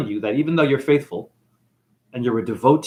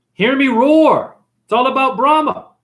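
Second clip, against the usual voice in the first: roaring boastful god; 8 semitones higher, 5 dB louder than usual. Acted. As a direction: proclaim it like a vain god. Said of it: "he says".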